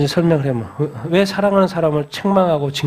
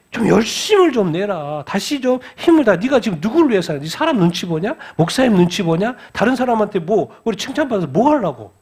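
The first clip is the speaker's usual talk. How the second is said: the Lord exhorting; 4 semitones higher than usual. Acted. The Lord challenging those who watch others' eyes, pressing exhortation. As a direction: challenge them with insistent rhetorical questions. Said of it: "주님이 요구하는 거 뭐예요".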